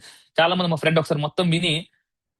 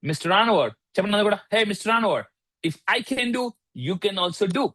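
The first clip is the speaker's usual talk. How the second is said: quoting the coach; 4 semitones higher, slower than usual. Retold or imitated. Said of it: "coach నాకు ఒకటే చెప్తాడు".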